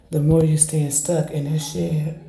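talking around a sip; words right after a sip; sipping. Real, not acted. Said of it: "As I just took a sip".

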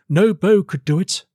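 high-pitched courtier's challenge; high, disdainful prompting; scornful baron. Acted. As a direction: goad the king in a high baron's voice. Baron scornfully dismisses the idea.

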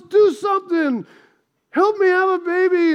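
mild mock-frustrated demand; insistent, lightly hammed-up plea; frustrated wife. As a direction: act out an exasperated wife pressing her husband. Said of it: "she's frustrated".

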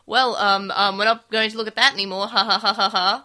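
loud hammed-up cover-up with fake laugh; obvious bad liar. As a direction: imitate hiding something, ending in forced laughter. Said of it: "more obvious that someone's lying".

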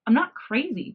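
the cat queen growling his denial at Yoongi, lifting voice and volume; growled. Acted. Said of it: "Jimin growled at him".

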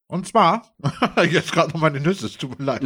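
talking while chewing nuts; words round a mouthful of nuts; mouth full. Real, not acted. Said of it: "hörst du auch nicht auf zu essen".

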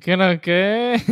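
slow playful mimicry of a greeting; echoed greeting. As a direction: stretch it out, copying the guest's holler. Host echoes guest's shouted greeting.

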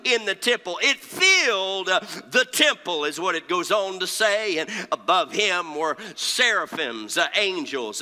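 impassioned pulpit preaching with punched key words. Real, not acted. Preacher telling the congregation of Isaiah's vision, impassioned preaching. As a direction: preach it hard, phrase by phrase.

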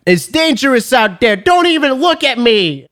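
high mock-dramatic warning voice; retold warning.

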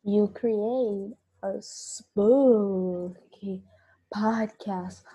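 whispered, slow and eerie; spooky whisper. Pretend. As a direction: breathe it out like a ghost story. Spooky podcast intro whisper.

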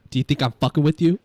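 loud, confrontational question; loud challenge. Shown as a demonstration. Director showing the menacing line, loud. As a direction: get in his face. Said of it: "I go".

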